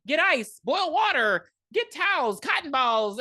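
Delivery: high, urgent retold commands; mock frantic orders. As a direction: fire off orders, hammed up. Acts out character's frantic orders.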